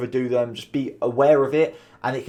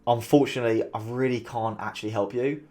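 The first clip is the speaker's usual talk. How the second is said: "Unfortunately" falling, softer and genuinely sorry; sincere; 4 dB quieter than usual. Shown as a demonstration. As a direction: say it gently, as a real apology. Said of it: "same sentence twice and they can mean completely different things".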